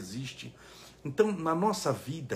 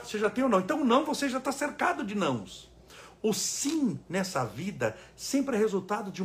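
forceful preaching; 6 semitones higher, 3 dB louder than usual. Real, not acted. Preaching build.

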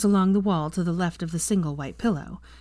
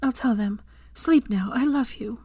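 higher, soothing lover's voice; loving reassurance, pitched up; tender; 6 semitones higher than usual. A narrator's reading. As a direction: send a loved one gently to sleep. Lover soothing him to sleep.

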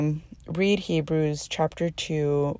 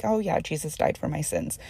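breezy, offhand and a little softer; said lightly; 5 dB quieter than usual. Retold or imitated. A believer mimicking how she says it too casually. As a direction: toss it off as if it barely matters. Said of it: "I say it so lightly".

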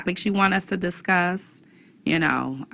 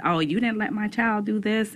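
higher whiny parent quote; complaining parent voice; 6 semitones higher than usual. Retold or imitated. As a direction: voice the fussy parent.

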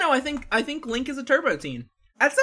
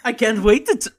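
clown voice; 5 dB louder than usual. Pretend. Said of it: "Why does your clown voice sound like Mister Dink".

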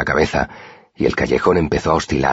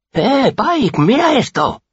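calling out; much slower than usual. A narrator's reading. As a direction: shout across to get Pike's attention. Boy calls out to Pike.

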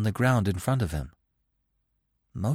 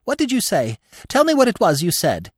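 high-pitched call from overhead; 11 semitones higher, 5 dB louder than usual. A narrator's reading. Squirrel calling down from the branches, high calling voice. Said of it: "a soft voice called down from overhead".

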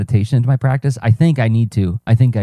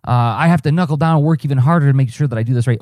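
higher-pitched, mildly panicked self-talk; mild mock panic; 5 semitones higher than usual. Acting out panic over a slipped schedule, mildly fretful. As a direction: play a touch of overwhelmed fretting. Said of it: "do you panic and say".

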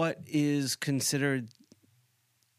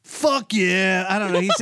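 loud, higher dumb-guy voice; Chip Chipperson; 5 semitones higher, 9 dB louder than usual. Acted. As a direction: yell it like a dim party bro. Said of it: "Do the, do the Chip Chipperson voice".

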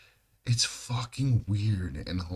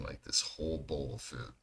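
whisper; 4 semitones lower, 7 dB quieter than usual. Real, not acted. Telling Teresa the story.

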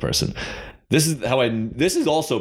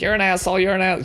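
mock drunk yell; 11 semitones higher, faster than usual. Drunk stranger yelling at him after the toast, mock high shout. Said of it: "she was still like".

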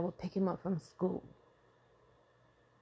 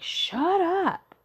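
sharp shut up; 11 semitones higher, 6 dB louder than usual. Retold or imitated. Tired parent snapping.

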